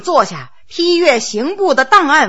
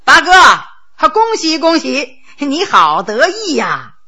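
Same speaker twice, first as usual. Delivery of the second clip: barge in with a noisy, showy hello; blustery greeting; slower than usual. Acted. Ninth brother bursting in to congratulate the eighth, blustery. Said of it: "咋咋呼呼地说".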